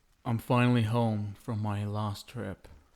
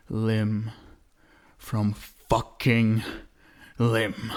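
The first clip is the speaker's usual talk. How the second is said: slow menacing threat; 4 dB louder, slower than usual. Acted. Vampire threatens to tear rivals.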